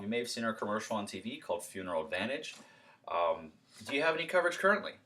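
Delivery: cheery, brisk door pitch; friendly door pitch. Shown as a demonstration. Salesman repeating pitch to homeowner, upbeat and friendly. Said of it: "I'm gonna go over it one more time".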